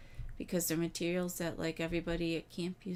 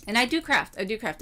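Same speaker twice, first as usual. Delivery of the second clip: loud, high emphasis on "do" in "I do craft"; stress on do; 6 semitones higher, 8 dB louder than usual. Real, not acted. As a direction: lean hard on "do" to insist. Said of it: "Personally, I do need to be crafting more".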